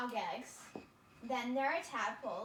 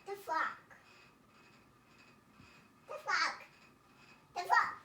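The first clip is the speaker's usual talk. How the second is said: insistent; 6 semitones higher than usual. Real, not acted. Child repeats answer louder each time.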